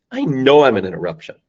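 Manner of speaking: mean it, with "know" hit hard; heartfelt admission, weight on "know"; sincere, stress on KNOW. Shown as a demonstration. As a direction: own up firmly, leaning on "know". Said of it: "and mean it".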